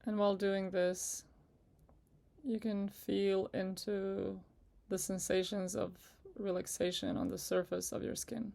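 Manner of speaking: unhurried meditation guide with long pauses; guided meditation. Acted. Guide asking listeners to relax with each breath, in calm meditation voice. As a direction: ease them gently through it, leaving space between phrases.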